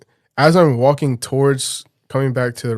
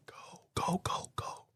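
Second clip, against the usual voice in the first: voiceless and much softer, barely breathed; urging him away in a hushed whisper; urgent whisper; 19 dB quieter, slower than usual. Retold or imitated. Girlfriend at the car window waving him off, urgent whisper. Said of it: "She's like".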